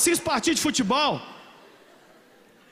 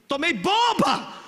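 mock dramatic complaint; 5 semitones higher, 5 dB louder, much slower than usual. Church member mocks being persecuted.

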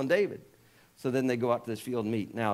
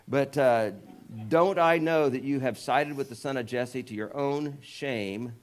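angry king; 2 semitones higher, 4 dB louder, slower than usual. Retold or imitated. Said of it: "Saul's anger flared up".

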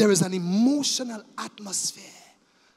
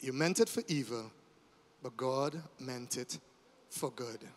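low and much softer, slowing down; a soft, reverent close; hushed closing; 9 semitones lower, 9 dB quieter than usual. Real, not acted. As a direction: let it sink in quietly.

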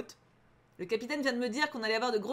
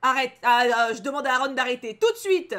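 urgent demand; 9 dB louder than usual. Acted. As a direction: order someone to stop at once. Reads plea to stop as urgent. (ordre pressant, fort, qui monte)

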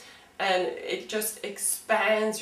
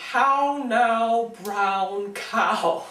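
rounded posh English vowels; 3 semitones higher, 5 dB louder, much slower than usual. Shown as a demonstration. Teacher showing students posh English vowels. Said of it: "going posh with everything that you say".

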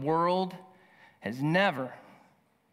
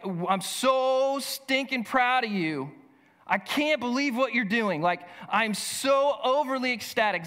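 mock proud gush; 5 semitones higher than usual. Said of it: "screamed at the top of my, uh, your lungs".

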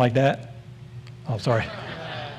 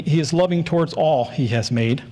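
"all" given extra weight; stress on "all". Shown as a demonstration. Preacher reading a Psalm to the church, emphasis on "all". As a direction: read it out, leaning on "all". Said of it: "I'm gonna emphasize the word all".

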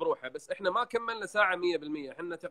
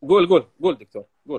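eager urging; 10 dB louder, faster than usual. Real, not acted. Host urges guest to tell story.

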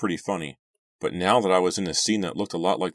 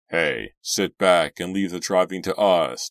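laughing; 6 dB louder than usual. Acted. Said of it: "laughing as if he just cracked".

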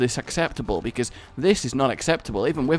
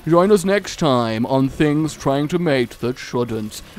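nature documentary; 2 semitones lower than usual. Pretend. Mocking nature documentary narration.

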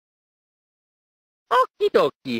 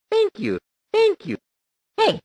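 ordinary talk, nothing marked

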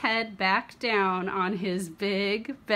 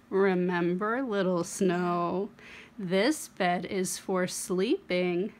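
gentle mommy warning; 2 semitones lower, slower than usual. Acted. Mother warns child at bedtime.

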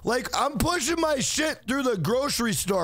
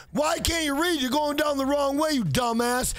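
retold angry yell. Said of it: "And the guy goes".

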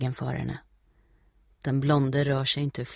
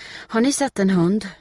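raised, louder inquiry; urgent question; 6 semitones higher, 7 dB louder than usual. A narrator's reading. Steffi asking small boys about Putte, urgent. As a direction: ask eagerly for help.

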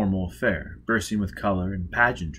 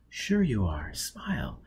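muttered aside; 5 dB quieter than usual. Acted. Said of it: "muttered to Robin".

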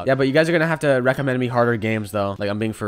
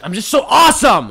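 mock boast; 10 semitones higher, 10 dB louder than usual. Boasting outburst.

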